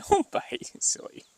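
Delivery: high, rising don't bite through a laugh; laughing high scold. Real, not acted. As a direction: giggle a gentle warning. Cat nibbling, laughing.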